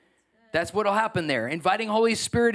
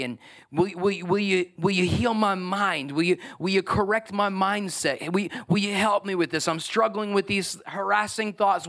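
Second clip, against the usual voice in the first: sample prayer; 2 semitones higher than usual. Shown as a demonstration. Pastor modelling prayers for healing and patience, pleading. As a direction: plead honestly, a little strained. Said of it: "I've had that happen".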